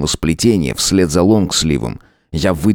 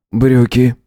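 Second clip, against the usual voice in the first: terse command; 5 semitones higher than usual. A narrator's reading. Howard's terse order.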